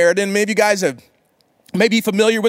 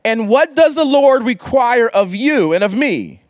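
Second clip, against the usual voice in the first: scripture reading; slower than usual. Acted.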